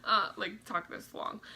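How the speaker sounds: breathless, winded talking; out of breath. Real, not acted. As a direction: talk between short breaths. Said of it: "I'm out of breath making this video".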